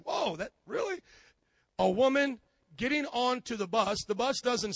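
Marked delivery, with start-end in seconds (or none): 0.0-1.0 shocked whoa. Retold or imitated. Pastor's shocked reaction.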